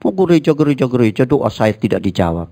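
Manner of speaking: high, whiny mock complaint to God; sulking churchgoer. Sulky believer whines to God about unanswered prayer. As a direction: pout it out.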